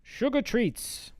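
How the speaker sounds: high, slow sing-song; drawn out like a jingle title; playful high stretched phrase; sing-song sugar treats. Pretend. Mock announcer of the phrase.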